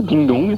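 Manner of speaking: sung ding-dong. Shown as a demonstration. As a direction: chime ding-dong like a doorbell. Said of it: "Tu nous refais ding-dong?". (ding-dong chanté comme une sonnette)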